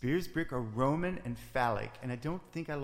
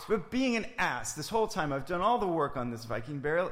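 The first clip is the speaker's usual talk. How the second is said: angry; 3 semitones higher, 5 dB louder than usual. Acted. Angry reply.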